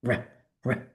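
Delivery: a plain English r, no roll. Shown as a demonstration. Teacher contrasting English r with the trill. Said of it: "it isn't trill".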